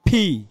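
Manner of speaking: "ফি" with a popped puff of air; aspirated letter P. Shown as a demonstration. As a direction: burst both lips open on "ফি". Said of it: "সঠিক pronunciation হচ্ছে গিয়ে কি".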